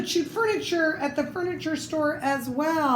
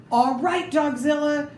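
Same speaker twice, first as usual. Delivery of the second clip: louder call out to the giant dog; shout; 4 semitones higher, 4 dB louder than usual. Acted. Mouse chief calling out the dog, a raised shout. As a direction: challenge the beast. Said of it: "shouted the Big Cheese".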